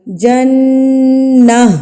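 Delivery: جنہ ending on a breathy ہ sound. Shown as a demonstration. Teacher shows the pause ending of جنہ. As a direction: stop on جنہ with an audible ہ. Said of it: "اینڈ پہ ہاں کی sound آئے گی".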